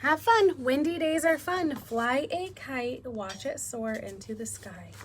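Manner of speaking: slow, clear storybook reading; reading to children. Acted. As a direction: read it slowly to little kids. Reads picture book to class.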